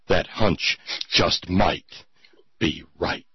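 low, ominous breaking-news read, hushed at the end; breathless newscaster. Acted. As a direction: read it like a frightening crisis bulletin. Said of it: "that voice you read that in was priceless".

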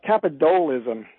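"capitalism" said as capit-DOLE-ism; coined pun pronunciation. Shown as a demonstration. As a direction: lean on a "dole" inside "capitalism". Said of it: "'Cause it keeps them on the dole".

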